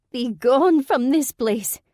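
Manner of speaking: slow, high, loud eerie moan; ghostly moan. A narrator's reading. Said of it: "she moaned".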